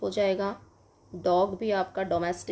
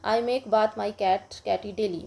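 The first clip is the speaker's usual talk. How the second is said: slow model sentence; much slower than usual. Shown as a demonstration. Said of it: "जैसे आप बता सकते हो".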